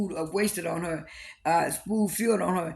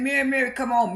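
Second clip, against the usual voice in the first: calling after her; 5 semitones higher than usual. Retold or imitated. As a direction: call her back as she leaves. Whitney calls after leaving Mary.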